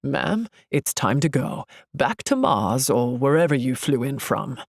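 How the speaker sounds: put-on guard, weary of her; dismissive security guard. A narrator's reading. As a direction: send her packing sarcastically. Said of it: "the security guard says".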